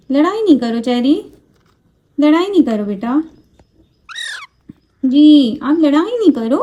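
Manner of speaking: high, fond mock-scolding baby talk; scolding the parrot. Mother stopping Cherry from biting, high fond mock scolding. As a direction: tell the bird off like a toddler.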